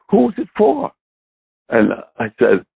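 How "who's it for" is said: mom's quick question, pitched well up; curious mom. Retold or imitated. Retelling her mom, asking it in a higher voice. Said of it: "And then my mom finally says".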